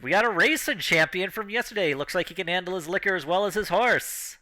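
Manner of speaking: announcer voice. Acted. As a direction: keep the showman patter going. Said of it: "And they point, like".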